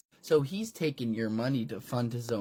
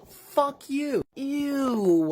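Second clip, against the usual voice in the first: much higher, loud squeaky curse; shrill defiance; 12 semitones higher, 6 dB louder, much slower than usual. Acted. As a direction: spit it out in a squeaky shriek. Chris high voice.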